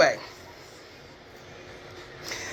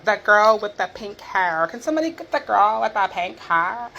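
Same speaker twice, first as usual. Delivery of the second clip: mocking dismissive coworkers; 5 semitones higher, 4 dB louder, slower than usual. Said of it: "Nobody calls me Kiana".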